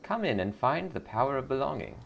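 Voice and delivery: sugary cult greeter; lightly voiced sweet cult recruiter. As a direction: welcome her in like a smiling recruiter. Recruiter catchphrase.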